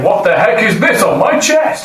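emphatic repeat of a startled exclamation; saying it out loud. Acted. Player confirms the party hears the discovery, saying it out loud. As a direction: announce it to the whole party in mock alarm. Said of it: "No, I'm saying".

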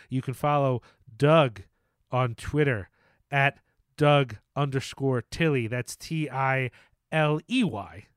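slow, measured spelling-out with gaps; copying another's cadence. Retold or imitated. Host giving co-host's handle in his cadence, imitating. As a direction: spell it out slowly in a borrowed cadence. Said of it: "trying to copy your cadence".

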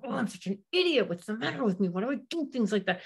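mock yourself for forgetting; self-berating. Parent berating herself after forgetting something. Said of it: "instead of going".

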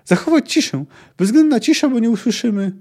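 high, loud demand for silence; roared order. A narrator's reading. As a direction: shout down the men urgently. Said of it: "ryknął Puszczyk".

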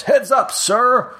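high called-out quip; calling out. Acted. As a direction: toss it out high and cocky. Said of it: "just goes".

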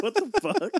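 shocked what the fuck. Retold or imitated. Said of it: "It's like".

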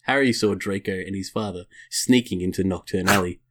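measured storybook reading voice; story narration. Acted. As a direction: read it out like a storybook. Reads erotic fan fiction aloud.

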